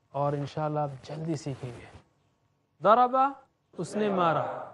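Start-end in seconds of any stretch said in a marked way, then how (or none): 2.8-3.3 louder, punchy ضربہ with a rising end; with action. Shown as a demonstration. Teacher acting out "he hit" for the class, loud and punchy. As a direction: strike the word as if hitting. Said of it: "action کے ساتھ".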